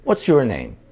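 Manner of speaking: low, with "name" dropping at the end; falling question tune. Shown as a demonstration. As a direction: let the pitch fall on "name". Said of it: "quase sempre ele desce".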